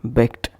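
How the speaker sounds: "begged" said as bekt; wrong voiceless ending. Shown as a demonstration. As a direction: harden the end of "begged" to k plus t. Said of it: "and not".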